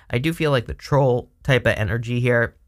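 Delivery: choking mid-sentence; words catching in the throat. Real, not acted. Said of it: "Sorry, I'm choking".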